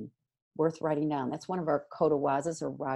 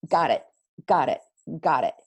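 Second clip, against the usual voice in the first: 1 quick acknowledgments; 3 semitones lower, 7 dB louder than usual. Shown as a demonstration.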